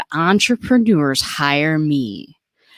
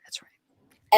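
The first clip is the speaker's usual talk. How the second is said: whispering. Pretend. Host answers in a whisper.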